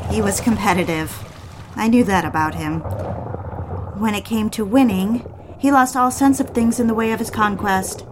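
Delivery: calm first-person audiobook narration; story narration. A narrator's reading. Wife recounting the night swim to listeners, calm narration. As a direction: tell it as an intimate memory, evenly paced.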